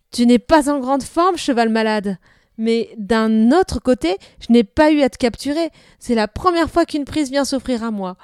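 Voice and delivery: put-on a delighted boy calling to a horse; young boy talking loudly to a horse; boy's eager voice. Boy talks to the sick horse.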